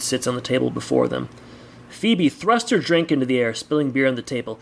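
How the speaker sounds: measured audiobook-style narration; story narration. A narrator's reading. Reader sets a bar scene for listeners, story narration. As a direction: read the story aloud with deliberate phrasing.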